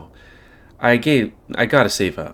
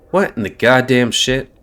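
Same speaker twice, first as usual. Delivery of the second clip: higher pitched; 4 semitones higher, 5 dB louder than usual. Acted. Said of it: "higher pitched than his others".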